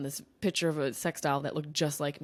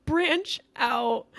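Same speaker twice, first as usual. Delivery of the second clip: higher, lilting Irish accent imitation; mock Irish accent; 8 semitones higher than usual. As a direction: lightly imitate his Irish lilt. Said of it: "He said".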